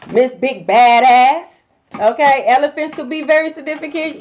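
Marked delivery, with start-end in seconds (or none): 0.1-1.5 mocking taunt. Real, not acted.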